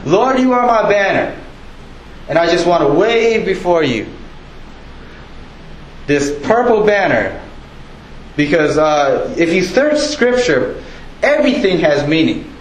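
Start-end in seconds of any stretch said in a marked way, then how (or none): 0.0-7.4 waving the purple banner while praying; demo prayer. Shown as a demonstration. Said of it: "I'm not good at this yet".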